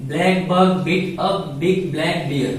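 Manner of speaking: very slow, every word laid out for students; slow example reading. Shown as a demonstration. Teacher reads the tongue twister slowly to the class. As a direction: read it slowly so the class hears each b. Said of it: "For example".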